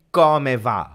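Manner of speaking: "Come va?" with a clear K at the start; hard C. Shown as a demonstration. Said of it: "With a C".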